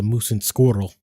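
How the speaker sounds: "squirrel" with a rolled R. Retold or imitated. Streamer imitating Natasha chasing moose and squirrel, rolled R in "squirrel". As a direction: roll the R in "squirrel" like a cartoon Russian. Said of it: "it's the rolling of the R's".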